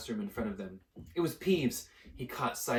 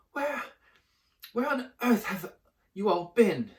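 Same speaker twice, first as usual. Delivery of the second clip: high, loud shocked scolding; indignant fat lady; 11 semitones higher, 6 dB louder than usual. Acted. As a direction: demand an answer. Fat Lady scolds late students.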